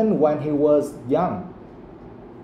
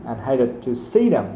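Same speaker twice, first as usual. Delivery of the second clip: "see" stressed, with a fall after it; 2 semitones lower than usual. Shown as a demonstration. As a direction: make "see" stand out after "hated". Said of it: "So you have to stress that word".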